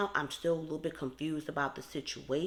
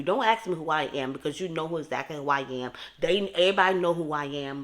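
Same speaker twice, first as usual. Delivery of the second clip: mock Peter; 3 semitones higher, 7 dB louder than usual. Voicing Peter's "who are you.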